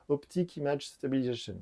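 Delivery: phrase said in a weak, French-tinged English accent; clumsy English accent. Shown as a demonstration. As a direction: try an English accent and don't quite manage it. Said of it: "Mon accent anglais est pas terrible". (un accent anglais approximatif)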